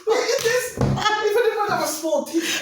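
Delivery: high, loud laughing through words; shrieking with laughter. Real, not acted. Caller laughing loudly.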